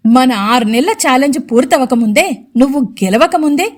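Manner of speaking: lightly sneering mother-in-law; sarcastic. Acted. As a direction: needle her with sarcasm. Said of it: "అని వెటకారంగా అంది రవళి".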